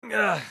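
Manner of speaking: high grunt of revulsion; short, revolted "ugh"; disgusted groan. Acted. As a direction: groan at something gross. Disgust at roaches.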